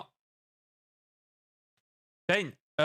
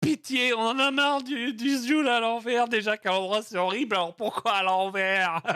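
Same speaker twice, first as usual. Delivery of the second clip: mock chat complaint; 4 semitones higher than usual. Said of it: "ils font".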